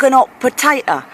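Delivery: "hot" in "hot potato" said without its H; dropped H. Shown as a demonstration. Londoner showing off Cockney speech, dropped H on "hot". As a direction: drop the H at the start of "hot". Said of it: "dropping H's".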